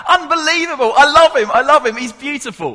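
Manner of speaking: high, loud, uncontainable delight; Bert Laclosse. Retold or imitated. Preacher re-enacts a father delighting in his son, overjoyed. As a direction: gush like a proud South African dad. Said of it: "could not contain how pleased he".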